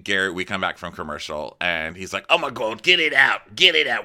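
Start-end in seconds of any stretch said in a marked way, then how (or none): 2.3-4.0 louder and higher, frantic; panicked yelling. Retold or imitated. Host acting Gary panicking in the cabin, loud frantic yell.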